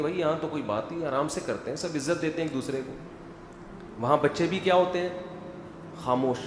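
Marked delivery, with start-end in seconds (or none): 0.0-2.9 calm quiet voice. Retold or imitated. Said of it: "وہ کہتی ہیں".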